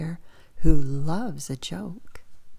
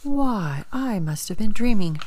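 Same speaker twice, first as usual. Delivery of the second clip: higher, hammed-up just-woke-up surprise; mock waking; 4 semitones higher, 4 dB louder than usual. Father bear pretending to wake up, mock surprised. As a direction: pretend you've just woken up. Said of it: "pretending to wake up".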